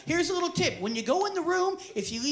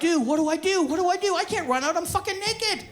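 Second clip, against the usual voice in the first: mock panic; 5 semitones higher, 3 dB louder than usual. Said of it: "my head is in the hole going".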